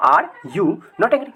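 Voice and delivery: each word of are you not angry stretched out slowly; slow and clear. Shown as a demonstration. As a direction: spell it out slowly for the class. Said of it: "ऐसे बोल सकते हो". (धीमे और साफ़ उच्चारण)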